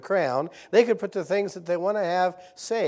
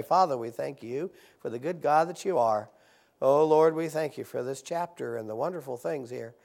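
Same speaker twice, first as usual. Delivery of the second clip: prayer; 3 semitones lower than usual. Real, not acted. Pastor thanking the Lord for the chapter, praying.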